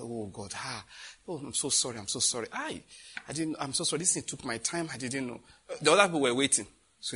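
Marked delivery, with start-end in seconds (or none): 0.0-5.4 softer, lower, sheepish sorry; a hint of an embarrassed big man; soft apology.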